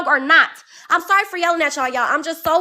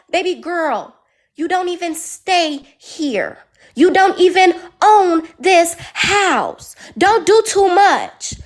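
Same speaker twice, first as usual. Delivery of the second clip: slow sass; slower than usual. Retold or imitated. Dismissing roommate, slow emphatic.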